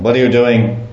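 mock police interrogation; policeman. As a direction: grill them like a bored cop. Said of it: "starts speaking like a policeman".

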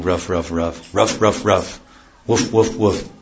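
mock dog barks, ruff then woof; dog barking. Teacher imitating the village dogs, mock barking. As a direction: bark like a dog, lightly. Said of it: "you think the dogs are saying".

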